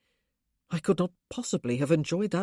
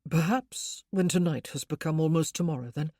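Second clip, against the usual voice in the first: louder gentle proposal; louder, tender invitation; 6 dB louder than usual. Acted. Husband proposes trying again, louder. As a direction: offer it warmly but out loud.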